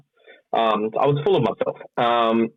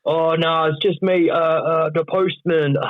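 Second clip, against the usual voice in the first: put-on English accent, pitched up; Englishman; 6 semitones higher, slower than usual. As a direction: play a chirpy English delivery man. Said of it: "You're speaking like an, a freaking Englishman right now".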